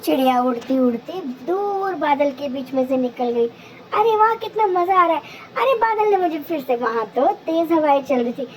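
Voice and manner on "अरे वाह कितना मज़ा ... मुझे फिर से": delighted bird. Acted. Bird delighted among the clouds.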